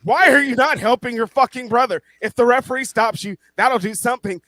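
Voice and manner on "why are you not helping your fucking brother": loud, high frustrated outburst; exasperated yelling. Real, not acted. Fan yells at Matt Jackson to help his brother, loud and high. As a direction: yell at a brother who won't help.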